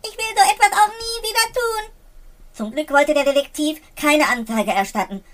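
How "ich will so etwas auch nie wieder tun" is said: stuttering. A narrator's reading. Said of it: "Und stotterte".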